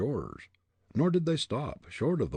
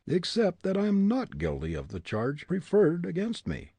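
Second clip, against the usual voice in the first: put-on higher, defiant young prisoner; defiant young man; 10 semitones higher, 4 dB louder than usual. A narrator's reading. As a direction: throw back the accusation. Hartley voiced.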